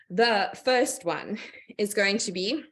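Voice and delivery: short of breath, slow and halting. Real, not acted. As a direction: pause for air between words. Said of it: "let me just catch my breath here".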